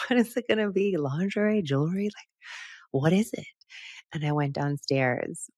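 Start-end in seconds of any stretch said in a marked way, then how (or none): 0.1-3.5 high, eager, bubbly questions; giddy guessing at a surprise gift; excited guessing. Retold or imitated. Wife downstairs guessing her husband's gift, excited and high.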